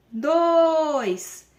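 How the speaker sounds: put-on hurried high, loud "dois" like an anxious child; rushed count. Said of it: "eles começam assim". ("dois" apressado de criança ansiosa)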